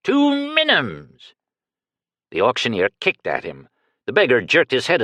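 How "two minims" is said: high shrieked bid; screamed. A narrator's reading. Screamed correction. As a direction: beggar screaming out his real bid. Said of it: "Baslam screamed".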